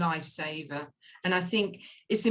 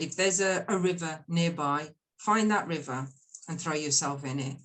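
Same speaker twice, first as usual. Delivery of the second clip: calm rejection; 4 semitones lower than usual. Retold or imitated. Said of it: "she's in a calm voice".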